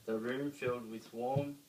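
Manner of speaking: plain reading voice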